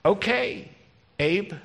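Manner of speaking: a light, playful yes to her husband; mock Sarah. Sarah agreeing to Abraham, lightly voiced and coy. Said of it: "she had to say".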